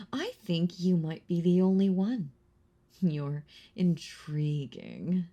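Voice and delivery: breathy whisper, close in. Acted. Vampire whispering to her last hunter, intimate whisper. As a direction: lean in and whisper it.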